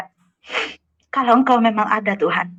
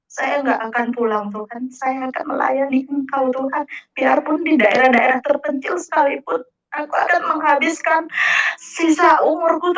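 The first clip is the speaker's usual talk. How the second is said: retold earnest vow; 3 semitones higher than usual. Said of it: "saya juga udah janji".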